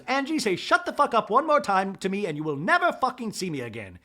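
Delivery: high mock ultimatum; imitated angry threat. Bronwyn warning Angie one last time, mock angry threat. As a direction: start high and hammer out the threat. Acted threat in retold quarrel.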